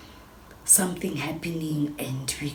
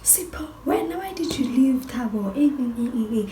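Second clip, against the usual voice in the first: imitated high, loud telling-off; confrontational scolding; 9 semitones higher, 6 dB louder than usual. Friend on Sipho's case about leaving Thabo, loud scolding. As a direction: get on his case, pitched up and loud. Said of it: "she's on Sipho's case".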